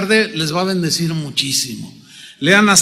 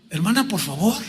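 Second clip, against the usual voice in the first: softer, lower restraining request; patient plea; 3 semitones lower, 7 dB quieter, faster than usual. Retold or imitated. Pastor asks the insistent wife to wait, low patient plea. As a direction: rein her in gently.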